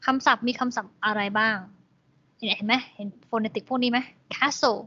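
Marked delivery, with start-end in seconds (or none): 4.3-4.8 "castle" stressed on the first syllable. Shown as a demonstration. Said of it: "stress เสียงตรง พยางค์ที่หนึ่ง". (เน้นเสียงพยางค์แรกของคำว่า "castle")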